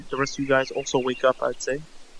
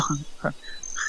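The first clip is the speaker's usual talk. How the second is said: soft, breathy little laugh; weak laugh; 2 semitones higher, 4 dB quieter than usual. Acted. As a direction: laugh weakly, hardly any voice in it. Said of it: "he weakly laughs".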